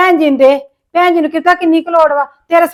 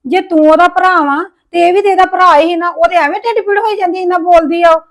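heated protest; 3 semitones higher than usual. Acted.

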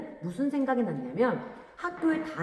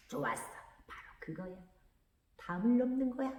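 속으로 하는 생각; 2 semitones higher, 7 dB quieter than usual. A narrator's reading. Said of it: "이렇게 생각하거든요".

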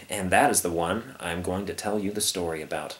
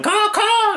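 high drawn-out caw, caw; cawing like a bird; 5 dB louder than usual. Acted. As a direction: imitate crows calling out. Imitates birds in the story.

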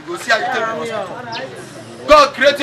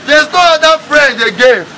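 louder, driving home the word no; emphatic preaching; 4 dB louder than usual. Real, not acted. Preacher to congregation, firm and emphatic. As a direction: insist hard that there is no other.

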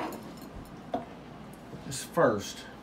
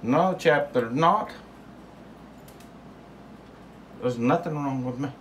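high indignant voice; 6 semitones higher than usual. Pretend. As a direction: answer back high and offended. Answering the squeaky voice.

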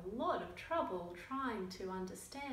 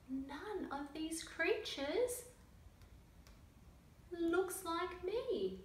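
slow emphasis; 7 semitones higher, 3 dB louder, much slower than usual. Acted. Slow pointed explanation.

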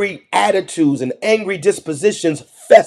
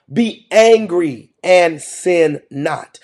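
slow emphatic; 3 semitones lower, much slower than usual. Shown as a demonstration.

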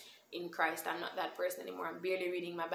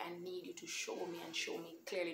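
whispered plea; 6 dB quieter than usual. Retold or imitated. Pleading prayer to God.

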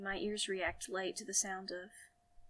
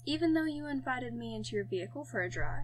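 put-on higher, teasing French accent; Francis's French accent; 4 semitones higher than usual. A narrator's reading. Passenger teases the driver about the invitation, French accent. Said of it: "That French accent".

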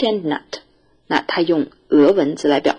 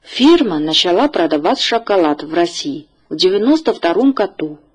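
careful teacher's model reading, phrase by phrase; read-after-me model. Shown as a demonstration. Teacher asks the class to read after her, clear model reading. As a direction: read out each phrase clearly for learners to repeat. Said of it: "请大家跟我读".

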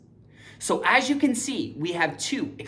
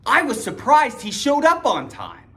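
surprised; 5 semitones higher than usual. Shown as a demonstration.

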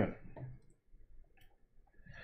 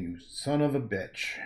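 Arnold quote. Retold or imitated. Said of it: "Arnold Schwarzenegger saying".

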